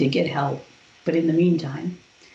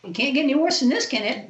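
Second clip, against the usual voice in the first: laughing disbelief; 9 semitones higher than usual. Retold or imitated. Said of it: "I'm laughing at Archangel Raphael".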